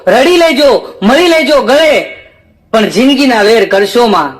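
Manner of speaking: slow, drawn-out verse delivery; poem recitation. Acted. Recites Nazir Dekhaiya's poem. (ધીમે, લંબાવીને કવિતા પઠન)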